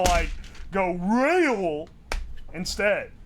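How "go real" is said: exaggerated, drawn-out "real"; mock pronunciation. Streamer mocking how chat says it should sound, "real" exaggerated. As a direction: stretch out "real" in mock correction. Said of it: "but you're supposed to".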